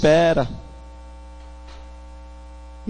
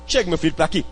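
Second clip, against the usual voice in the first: soothing mother; 4 semitones lower, 5 dB quieter, much faster than usual. Acted.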